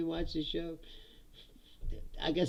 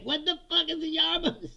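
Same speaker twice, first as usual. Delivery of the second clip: baffled laugh; 11 semitones higher than usual. Retold or imitated. Reader baffled by slang.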